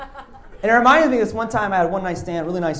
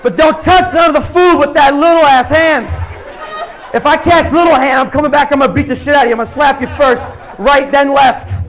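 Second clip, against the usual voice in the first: imagined rowdy shout; 5 semitones higher, 3 dB louder than usual. Retold or imitated. Comedian imagining himself yelling at the barbecue host. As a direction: holler it across the backyard like a bully. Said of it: "now I'm envisioning awful shit".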